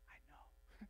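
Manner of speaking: soft breathy whisper of a loving voice; gentle whisper. Retold or imitated. God answering his tears in a gentle whisper. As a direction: whisper it tenderly, barely there. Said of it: "just the most gentle whisper".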